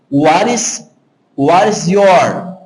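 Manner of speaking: WHAT IS YOUR slowly run together; linked pronunciation. Shown as a demonstration. Teacher showing students how the words link, linked slowly. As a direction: join the S of IS onto YOUR, drawn out. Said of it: "vai unir com o Y também".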